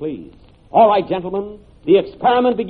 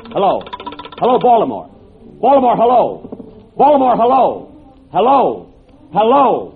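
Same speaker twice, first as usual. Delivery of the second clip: calling out. Acted. Calling into the first telephone.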